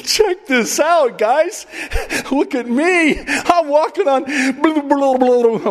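hammed-up showing off to the guys; mock bragging show-off. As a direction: shout it like a kid bragging on a dare. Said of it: "looked at his disciples and goes".

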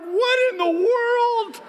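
high, loud, wailing and half-crying; husband to crying wife, high wailing panic; panicked husband. Retold or imitated. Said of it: "I'm like".

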